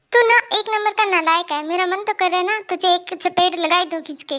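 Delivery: cross motherly threat; angry mother. Acted. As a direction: tell off your useless son. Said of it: "अरे मम्मा गुस्सा मत कीजिए".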